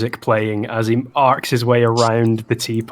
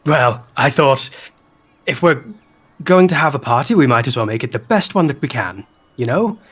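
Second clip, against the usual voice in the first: excited party host; 2 semitones higher, faster than usual. Acted. Flopsy's voice continues.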